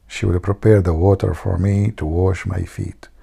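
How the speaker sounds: murmured aside to a friend, still voiced; retold whisper. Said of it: "He told the guy, whispering".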